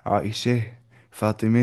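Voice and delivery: "عائشہ" and "فاطمہ" ending bent toward ay sound, "عائشے", "فاطمے"; imala. Shown as a demonstration. Teacher shows imala on names Aisha and Fatima, leaning e. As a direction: lean the final vowel of "فاطمہ" toward e. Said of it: "امالہ کرتے".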